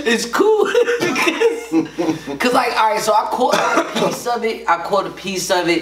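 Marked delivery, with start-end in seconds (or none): 0.1-3.0 cracking up mid-sentence; trying not to laugh. Real, not acted. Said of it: "I'm trying to keep a straight face". 3.0-4.7 words breaking into a laugh. Real, not acted. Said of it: "I'm trying to keep a straight face".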